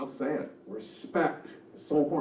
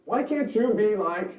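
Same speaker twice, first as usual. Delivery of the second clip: high, loud, slow parental reproach; drawn-out, demanding parent voice; judgmental parent; 8 semitones higher, 6 dB louder than usual. Acted. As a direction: scold like a parent making comparisons. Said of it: "Parent voice would be authoritative".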